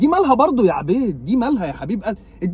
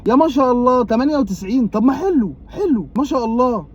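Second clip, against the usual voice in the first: mock delight; 6 semitones higher than usual. Fake cheer over relatives' scores.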